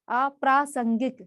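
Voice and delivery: अप्रासंगिक said slowly, each syllable clear; slow careful spelling-out. Shown as a demonstration. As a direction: pronounce अप्रासंगिक slowly and distinctly. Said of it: "तो हम इसको पढ़ते हैं".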